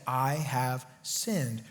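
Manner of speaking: slow low confession, drawn out and quiet; mournful confession. Acted. Saul admitting guilt to David, slow and low. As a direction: sigh it out heavily, ashamed. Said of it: "then Saul said".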